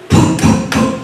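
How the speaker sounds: three hollow thudding knocks; imitated door knocking. Storyteller sounding out knocks heard down the hall, imitated knocking. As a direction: knock out three separate booms. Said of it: "like somebody knocking on a door".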